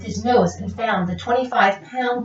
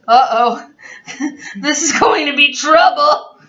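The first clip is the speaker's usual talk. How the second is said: nervous; 5 semitones higher than usual. Acted. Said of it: "he said to himself nervously".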